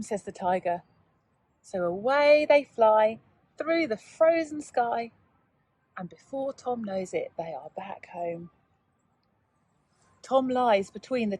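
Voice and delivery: gentle bedtime-story telling; story narration. A narrator's reading. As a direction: draw young listeners into the tale. Narration, winding down to sleep.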